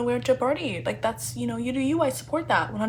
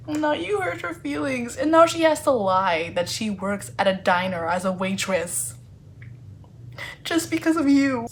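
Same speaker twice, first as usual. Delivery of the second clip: loud, high protective rant; mock outrage; 3 semitones higher, 3 dB louder than usual. Reader defending Lizzie against Michael, indignant loud rant. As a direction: scold him like an indignant big sister.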